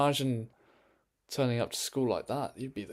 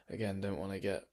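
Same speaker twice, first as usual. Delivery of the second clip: unvoiced, wary whisper; cautious whisper; 3 semitones lower, 6 dB quieter than usual. Real, not acted. Vlogger afraid of saying too much, whispering. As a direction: whisper it like you might be overheard. Wary of getting arrested for opinions.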